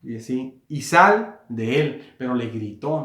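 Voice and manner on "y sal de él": very slow, drawn-out reading. Shown as a demonstration. Preacher reading Jesus' order to demons, slowly and deliberately. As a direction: read the command out deliberately, word by word. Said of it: "estoy leyendo así despacio".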